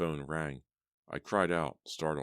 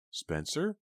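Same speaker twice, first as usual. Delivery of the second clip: calling out; 12 semitones higher than usual. A narrator's reading. Calling after him.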